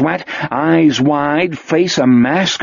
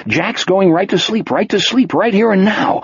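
a lightly higher, coaxing Wolf; Wolf voiced; 6 semitones higher than usual. Wolf calming himself in the dark cinema, coaxing. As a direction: talk yourself into staying calm, a bit higher.

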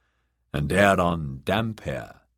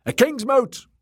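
very high rallying yell; high, excited acclamation; crowd shout; 4 dB louder than usual. Acted. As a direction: shout it like a roused mob. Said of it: "they shouted".

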